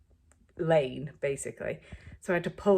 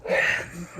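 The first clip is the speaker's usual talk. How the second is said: waking-up yawn; 3 dB louder than usual. Real, not acted. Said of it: "That yawn is just a, me waking up".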